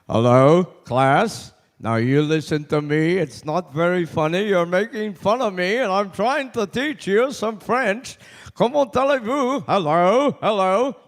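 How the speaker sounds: lightly voiced fifth grade French teacher; impression of French teacher. Comedian imitating his fifth grade French teacher for the audience, lightly voiced. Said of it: "So here is Mister Wilmacher".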